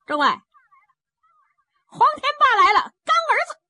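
put-on high, slow, sing-song child's taunt; a cheeky kid teasing from a safe distance; taunting boy. The little boy taunting Huang Tianba in a high sing-song child voice.

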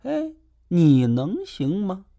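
slow, high, lightly voiced sneer; drawn-out mocking question; a hint of scornful doubt; mock doubtful. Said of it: "意思是说".

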